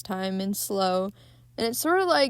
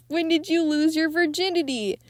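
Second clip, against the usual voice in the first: higher, odd put-on voice for the priest; creepy priest; 7 semitones higher than usual. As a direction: voice the priest as something unsettling and off. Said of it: "and then he says".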